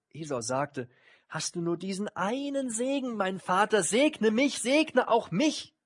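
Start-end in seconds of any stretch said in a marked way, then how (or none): 1.3-5.7 high, rising desperate plea, slowing at the end; high, drawn-out begging on the verge of tears; tearful pleading. A narrator's reading. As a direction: plead like a son about to weep. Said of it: "Und dann fing er laut an zu weinen".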